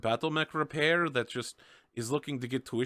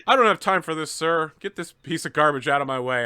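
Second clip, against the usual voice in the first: impatient cop; 3 semitones higher, 5 dB louder than usual. Acted. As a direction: snap at him to get out of the way. Impatient cop dismisses the doctor.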